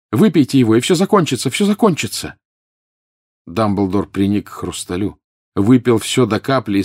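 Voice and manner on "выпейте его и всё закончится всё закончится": loud, high, climbing plea; frantic insistent coaxing; desperate urging. A narrator's reading. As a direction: promise relief urgently, pitch rising. Harry desperately urges the last cup.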